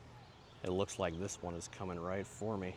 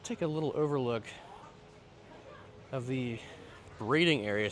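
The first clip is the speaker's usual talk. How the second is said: out of breath; 4 semitones higher, 3 dB louder than usual. Real, not acted. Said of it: "Sorry, I'm out of breath".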